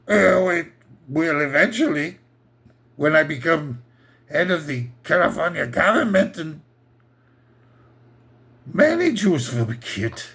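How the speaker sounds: lightly voiced Austrian boast; a hint of Austrian accent, matter-of-fact; mock Austrian son. Young Arnold answering his father, lightly voiced Austrian accent. Dialogue at family table.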